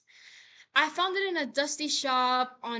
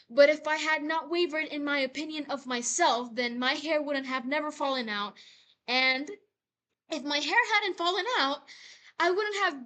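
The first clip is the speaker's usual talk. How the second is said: rising intensity; 2 semitones higher, 4 dB louder than usual. Acted. Monologue builds to its climax.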